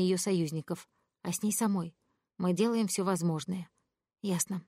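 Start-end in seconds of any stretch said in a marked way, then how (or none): 4.2-4.6 gloomy. Acted. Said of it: "мрачно сказала я".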